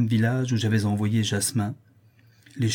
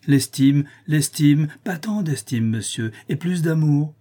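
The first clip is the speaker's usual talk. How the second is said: higher, vexed echoing of the word; acted exasperated demand; indignant protest; 5 semitones higher, 4 dB louder than usual. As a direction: protest and demand more from a lover. Countess rejects esteem, demands love.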